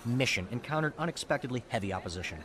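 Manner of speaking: grand mock-epic story read; mock heroic telling. Teasing a friend with an overblown war story. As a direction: puff it up like a heroic legend. Nathan retells the hero story.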